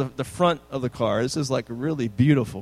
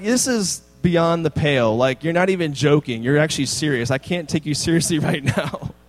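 louder, mock-exasperated disbelief; incredulous dad; 3 dB louder than usual. Dad telling son the request is absurd, louder. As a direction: scoff at the outrageous idea. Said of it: "I'm like".

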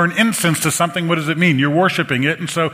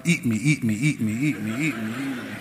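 howling pantry; 5 semitones lower, 6 dB quieter than usual. Acted. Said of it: "the pantry's howling".

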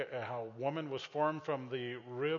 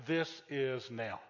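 flat and dull; 2 semitones lower, much slower than usual. Retold or imitated. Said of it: "So they say".

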